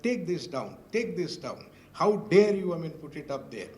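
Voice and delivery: mock-indignant order, punching "How dare you"; retold fuming demand to remove the crest; retold angry scolding. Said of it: "he had started screaming at me".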